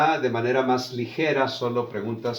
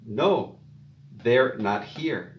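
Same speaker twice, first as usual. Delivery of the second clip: they're not here spoken slowly, stress on they're; drawn-out model answer; slow teacher model; much slower than usual. Shown as a demonstration. Teacher modelling the negative answer for Spanish learners, slowly.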